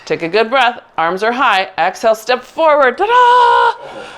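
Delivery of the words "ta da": playful ta-da. Real, not acted. Finishing the move with flourish.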